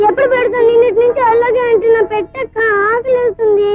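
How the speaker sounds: put-on whining, upset child's complaint; tearful whining. Hungry little sister complaining to elder sister, tearful whining. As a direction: whine through tears for food. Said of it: "ఏడవద్దమ్మా".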